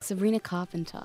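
lightly imitated Australian pronunciation; mimicked Australian accent. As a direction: echo the name in an Australian accent. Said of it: "I like how you guys say my name".

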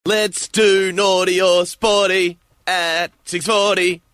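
slow, put-on radio hype; all-out enthusiasm. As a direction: pitch it up and stretch the rhyme. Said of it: "that's one hundred percent of my enthusiasm and energy today".

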